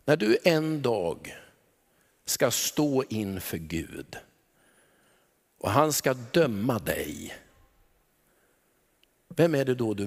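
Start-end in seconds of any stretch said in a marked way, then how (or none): 2.2-4.2 whisper. Real, not acted. Awe at standing before God.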